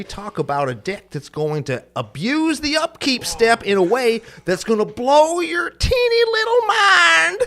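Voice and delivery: rootin'-tootin' cowboy, rising to a high whoop; cowboy impression. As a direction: read the promo as an over-the-top cowboy. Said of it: "do the rest of this in your Cowboy impression".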